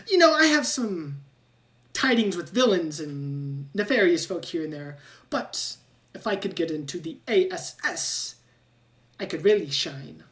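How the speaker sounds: a little rat bragging about big plans; rat scientist. Acted. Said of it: "And he goes".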